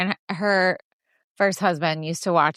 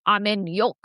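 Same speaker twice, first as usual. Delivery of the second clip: a mock New York accent, lightly done; playing a New Yorker in Wayne's World, lightly. Friend retelling a movie scene, mock New York accent. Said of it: "That was my New York accent".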